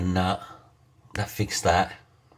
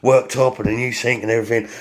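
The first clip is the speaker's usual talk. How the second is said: mock panicky wailing, pitched up and louder; melodramatic panic; 4 semitones higher, 5 dB louder, faster than usual. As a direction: ham up the doom of a big repair. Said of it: "Oh, I'm so melodramatic".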